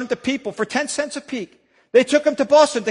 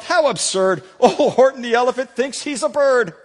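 mocking with a laugh; taunting laugh; 3 semitones higher than usual. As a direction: tease him between laughs. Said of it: "taunted and teased him and yelled".

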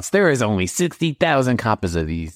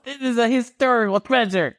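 a much higher, offended protest; indignant squeak; 12 semitones higher than usual. Acted. Seller defends his worthless game.

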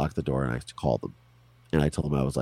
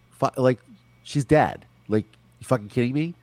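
higher-pitched, mildly incredulous retort; retold disbelief; 6 semitones higher than usual. Child reacting to friends' missing persons report, in retold disbelief. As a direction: balk at an absurd claim, pitched up.

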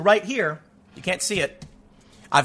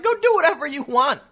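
dismissive cop; 9 semitones higher than usual. Retold or imitated. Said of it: "the lady cop's like".

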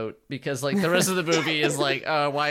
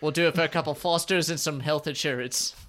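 mock Australian; 3 semitones higher than usual. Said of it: "Are you guys even doing Australian?".

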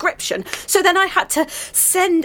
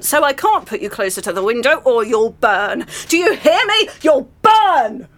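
exasperated rant at a houseplant; ranting at a plant; 2 semitones higher than usual. Retold or imitated. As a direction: scold the plant, rising to a yell. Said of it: "'Cause I was like".

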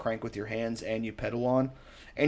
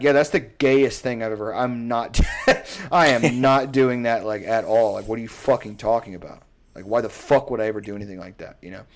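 outraged retort; 4 dB louder than usual. Retold or imitated. To the skinny boxer who shared his tips, loudly indignant. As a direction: ham up the disbelief, pushing each no harder.

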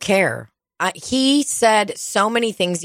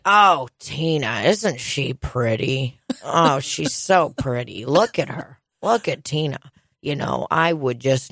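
imitating Donald; 4 semitones lower than usual. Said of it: "I couldn't handle him yesterday".

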